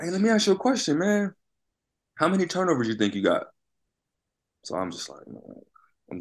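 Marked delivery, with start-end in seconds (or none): 0.0-3.5 much higher, teasing coach voice; a hammed-up coach pressing for an answer; imitating the coach. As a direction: mimic the coach needling him.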